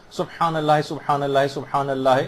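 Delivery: سبحان اللہ three times, each ح clearly sounded; careful, measured سبحان اللہ, thrice over; correct ح. Shown as a demonstration. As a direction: repeat سبحان اللہ evenly with a distinct throaty ح. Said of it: "اس میں ہا ایک صحیح طور پر نکل آئے".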